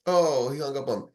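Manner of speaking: usual speaking voice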